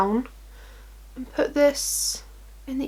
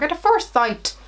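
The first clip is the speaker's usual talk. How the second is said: "At a Forest Sight" in a playful Irish lilt, pitched up; a quick fun Irish accent on the product name; lightly put-on Irish accent, higher pitched; mock Irish accent; 5 semitones higher than usual. Shown as a demonstration. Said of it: "I always wanna say it like an Irish accent".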